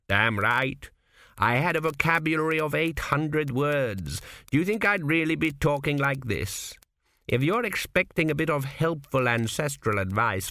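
put-on a sly old man in a dream, unhurried; a hint of a wry old founder; old ancestor Kuft. Kuft talks to Tepik.

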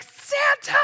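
put-on high, drawn-out child's shout; excited kids' cry. Twins point at a bearded man at Christmas, excited shout. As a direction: call it out like a delighted little kid. Kids pointing, calling out at stranger.

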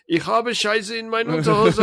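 high-pitched silly German declaration; mock German announcement. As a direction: proclaim it absurdly high. Silly German exit line, performed.

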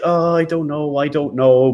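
put-on indecisive voice; mock hesitation. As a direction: imitate someone dithering. Mimics hesitant buyers once more.

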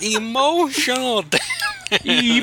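put-on high, drawn-out comic Asian accent; hammed-up high catchphrase in an Asian accent; mock Asian accent. Podcaster quoting a YouTuber catchphrase, mock Asian accent. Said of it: "No, you're like".

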